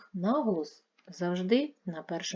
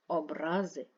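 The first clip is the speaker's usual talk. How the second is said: образи with a long middle -ра-; stress on second syllable. Shown as a demonstration. Teacher contrasting word meanings, second-syllable stress on образи. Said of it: "мають різний наголос".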